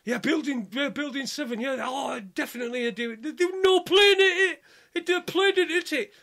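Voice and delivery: high, loud imitation of an over-excited lad; giddy excitement. Young lad gushes about what he's discovered, giddy and loud. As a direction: go off like a giddy kid on Christmas Day. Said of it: "he's going off like this".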